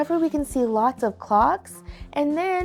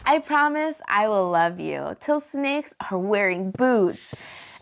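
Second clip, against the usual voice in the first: lilting, rhyming story narration; picture-book read-aloud; 3 semitones lower, 5 dB louder, slower than usual. A narrator's reading. Host reads a love promise book to kids, lilting read-aloud. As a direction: read it to children, landing each rhyme.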